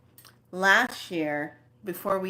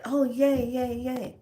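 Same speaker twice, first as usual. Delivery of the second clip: higher-pitched delighted yays; excited cheer; 6 semitones higher than usual. Retold or imitated. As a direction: relive a happy little cheer. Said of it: "I was so excited".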